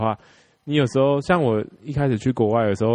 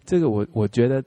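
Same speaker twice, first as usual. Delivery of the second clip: put-on ABC accent. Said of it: "开始有出来了".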